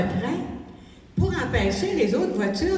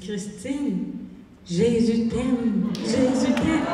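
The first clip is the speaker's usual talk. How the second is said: tender punchline; 3 semitones lower, much slower than usual. Retold or imitated. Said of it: "J'ai dit".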